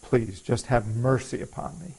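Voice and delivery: quiet prayer. Retold or imitated. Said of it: "I pray".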